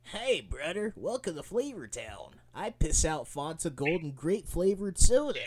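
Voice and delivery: hammed-up Flavor Town host; loud, brash diner TV host; Guy Fieri voice.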